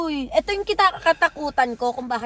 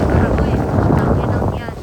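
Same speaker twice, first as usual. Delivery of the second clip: loud outburst; 3 semitones lower, 7 dB louder than usual. Real, not acted. Gamer outburst at screen.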